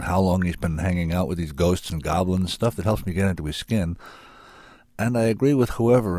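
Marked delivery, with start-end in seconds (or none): 5.0-6.2 groggy. Real, not acted. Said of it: "I'm sorry, I'm getting groggy".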